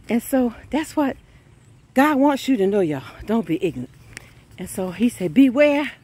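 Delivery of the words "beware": higher, louder warning call. Real, not acted. Preacher warning the church, loud call. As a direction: shout it out to the congregation.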